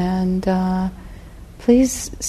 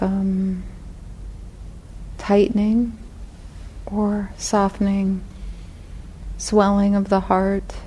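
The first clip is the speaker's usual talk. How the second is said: unhurried guided reflection, long pauses between phrases; guided meditation; 4 dB quieter than usual. Real, not acted. Teacher guiding meditators to feel their intention to sit, guided meditation. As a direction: lead them gently inward, leaving space after each phrase.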